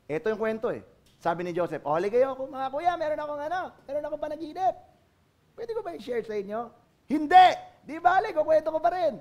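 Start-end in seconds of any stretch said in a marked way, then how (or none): 1.9-6.7 lightly voiced eager younger brother; a bit higher, sing-song, inviting; cartoonish Joseph. Joseph inviting brothers to hear his dream, lightly cartoonish. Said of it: "ang galing ng boses ko ah. Parang pang-cartoons". 7.1-9.2 loud refusal, then higher cheeky reply; cartoon voices. Brothers refuse and Joseph insists, cartoonish. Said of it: "ang galing ng boses ko ah".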